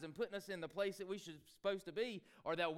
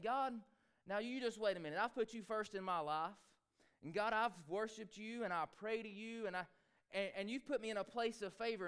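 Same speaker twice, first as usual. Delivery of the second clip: Daniel complaining to God. Retold or imitated. Preacher voices Daniel's complaint to God.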